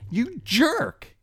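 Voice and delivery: high-pitched mock yell, retold; a retold angry yell in a restaurant; loud angry outburst. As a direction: shoot it out like an angry insult. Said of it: "in a very loud voice".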